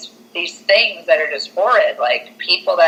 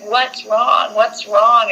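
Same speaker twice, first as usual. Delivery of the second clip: higher-pitched worried mother; mock alarm; 4 semitones higher, much slower than usual. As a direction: imitate an anxious mom, lightly. Mom questions her frightened son.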